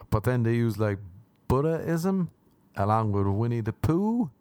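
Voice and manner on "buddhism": Buddhism split, higher, with ism set apart; pause before ism. Real, not acted. Host listing religions in the book, Buddhism split before ism. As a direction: say Buddha, tiny break, then ism. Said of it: "without a pause with the word ism".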